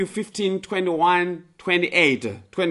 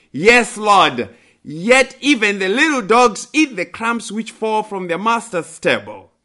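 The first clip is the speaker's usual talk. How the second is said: higher, louder humble plea; pleading; 5 semitones higher, 4 dB louder than usual. Acted. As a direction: press the plea, pitched up. Woman's humble plea repeated.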